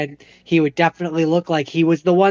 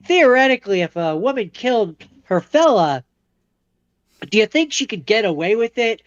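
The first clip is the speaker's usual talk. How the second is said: higher mock-innocent asking voice; sly questioning; 5 semitones higher than usual. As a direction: fish for answers while playing innocent. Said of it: "He's like".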